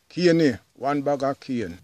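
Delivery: calling out to the vendor. Retold or imitated. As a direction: call him over from the roadside. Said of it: "So they would say".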